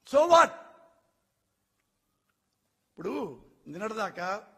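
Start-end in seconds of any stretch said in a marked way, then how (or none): 0.1-0.5 scornful dismissal. Real, not acted. Scornful retort to question.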